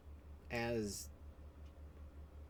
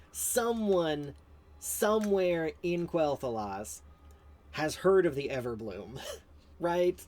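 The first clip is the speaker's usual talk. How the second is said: higher and louder, slowing on somewhere in Quel'Thalas; incredulous rant; 6 semitones higher, 8 dB louder, slower than usual. Real, not acted. Streamer mocking the lore mistake, loud and incredulous. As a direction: drag it out in disbelief, laughing. Ranting at quest writers.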